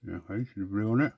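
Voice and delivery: muffled talk round a paintbrush; paintbrush in mouth. Real, not acted. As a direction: speak with a brush held in your teeth. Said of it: "I'm talking all muffled".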